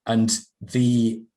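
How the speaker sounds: normal talking voice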